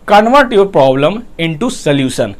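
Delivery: convert your problem into solution, very slowly; drawn-out English motto; slow emphatic heading. Shown as a demonstration. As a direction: spell out the heading. Announcing third point slowly.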